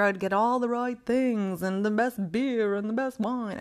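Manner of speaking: a put-on snooty, posh-party voice; lightly snooty show-off tone. Real, not acted. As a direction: sniff about the best wine like a snob. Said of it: "I don't know why I'm talking like that, but all of a sudden I'm snooty".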